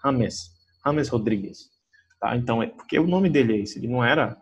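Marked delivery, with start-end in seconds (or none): 0.0-1.6 "James" said "HA-mes", with a rough Spanish h; Spanish pronunciation. Shown as a demonstration. Teacher showing the Colombian player's Spanish name. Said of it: "o J em espanhol tem o som de R R".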